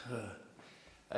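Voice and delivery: short breathy "huh"; real huff while searching for an answer; pondering huff. Real, not acted. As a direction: let out a thinking sigh. Thinking over a hard question.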